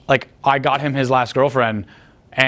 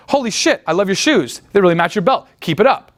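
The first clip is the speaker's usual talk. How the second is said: mock excitement; 5 semitones higher than usual. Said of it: "when I do the whole".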